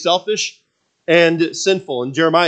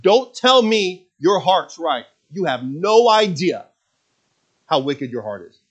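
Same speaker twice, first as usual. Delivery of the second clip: stern rebuke; 2 semitones higher than usual. Retold or imitated. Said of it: "That's what he was saying".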